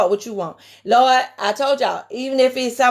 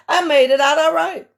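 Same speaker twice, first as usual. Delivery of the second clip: proud exclamation; 4 semitones higher than usual. Retold or imitated. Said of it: "because I be like".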